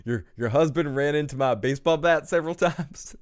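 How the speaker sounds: jokey villain, breaking into a chuckle; loud, hammed-up affable menace; Negan. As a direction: make a bad joke in a put-on accent. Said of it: "trying to make a joke".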